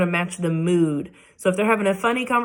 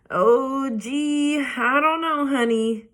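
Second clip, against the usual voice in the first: gentle daddy voice; 6 semitones higher, much slower than usual. Acted. Father hesitating to let daughter take tooth, hesitant. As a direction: ease into it like a reluctant father.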